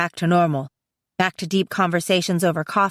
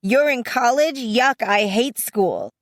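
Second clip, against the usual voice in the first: smug; 5 semitones higher, slower than usual. Retold or imitated. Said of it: "she was all super smug like".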